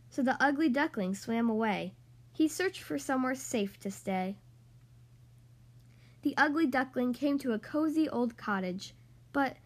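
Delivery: lively, sing-song storybook reading; reading to children. Acted. Podcast host reading The Ugly Duckling to young kids, animated storytelling. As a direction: read it like a bedtime picture book for little kids. Reads picture book to kids.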